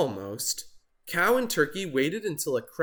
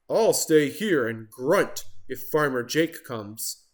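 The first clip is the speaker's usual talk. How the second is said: Pig voice. Acted.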